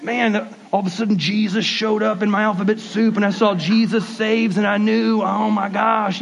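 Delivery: breathless mock testimony, a touch hammed; over-eager believer. Pastor mocking a weird God story, lightly overexcited. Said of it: "if you got this weird story".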